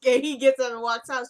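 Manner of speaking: telling it through a laugh; laughing while recounting; amused laughing narration. Real, not acted.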